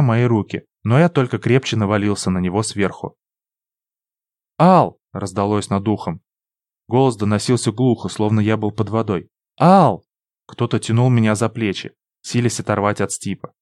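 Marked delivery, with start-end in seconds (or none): 4.6-5.0 loud, sharp call; shouting a name. A narrator's reading. Someone shouts his name. 9.6-10.0 loud, sharp call; shouting a name. A narrator's reading. Shout repeated.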